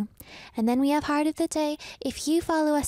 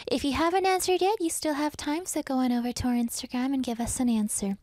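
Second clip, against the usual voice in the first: out of breath. Real, not acted. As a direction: still a bit breathless. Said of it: "I'm still out of breath".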